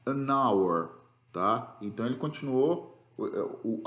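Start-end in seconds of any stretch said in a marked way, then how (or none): 0.1-0.9 an hour said with a silent H, like an our. Shown as a demonstration. Teacher shows students the silent H in hour. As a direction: link an straight into hour, no H. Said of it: "O H aí não teve som".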